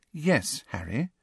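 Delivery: soft, gentle reassurance. A narrator's reading. Hermione gently reassuring Harry, soft and kind. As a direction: ease his worry softly. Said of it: "said Hermione gently".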